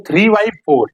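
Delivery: three by four, each word drawn out slowly; slow, spelled-out reading. Shown as a demonstration. Teacher spelling out three by four to the class, slowly. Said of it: "इसको बारह नहीं पढ़ेंगे".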